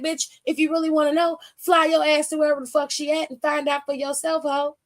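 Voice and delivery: fast, sharp clapback with plenty of attitude; sassy imagined retort. Pretend. Vlogger snapping back at the wrestler on screen, fast and sassy. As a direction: fire it off quick, full of sass.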